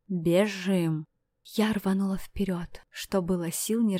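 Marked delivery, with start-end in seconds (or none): 0.1-1.1 yell. Acted. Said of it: "завопил".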